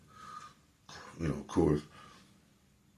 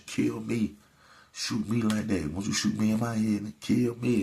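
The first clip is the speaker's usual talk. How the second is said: higher, louder daring challenge; retold defiant taunt; 5 semitones higher, 4 dB louder than usual. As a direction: dare him to shoot, voice raised high. Sister provoking the man at club.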